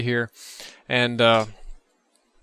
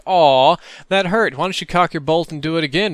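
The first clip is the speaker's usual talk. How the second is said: loud, high fake-hurt whine; mocking zombie; 4 semitones higher, 5 dB louder than usual. Zombie to the man who just shot it, mocking. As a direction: tease the shooter with pretend pain. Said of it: "The thing just laughs like".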